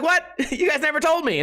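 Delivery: high-pitched laughing disbelief; shocked, laughing. Retold or imitated. Retelling shocked reaction to friends.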